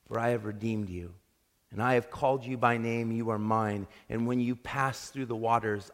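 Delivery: lightly softened, gentle reading; a hint of calm comfort in scripture; voice of compassion. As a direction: read it like a tender promise. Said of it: "The voice of compassion".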